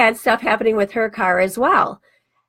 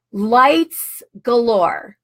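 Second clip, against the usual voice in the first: amazed; much slower than usual. Retold or imitated. Saleswoman amazed by her job.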